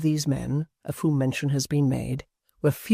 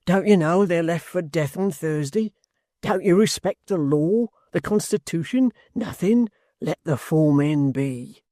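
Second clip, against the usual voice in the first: rising indignant hangman, slowing at the end; indignant old hangman; hangman's voice; 2 semitones higher than usual. Acted. Hangman defending his prisoners.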